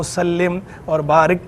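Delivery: सल्लिम and बारिक with "i" in the last syllable; "sallim", "baarik" for सल्लिम और बारिक; reversed reading. Shown as a demonstration. Scholar giving a hypothetical reading, सल्लिम with "-lim". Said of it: "किसी ने इसके बरखिलाफ कर लिया".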